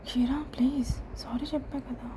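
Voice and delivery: softened faltering sorry; faltering plea. Acted. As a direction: falter and plead quietly with her. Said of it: "Rudra ఒక క్షణం తడబడి".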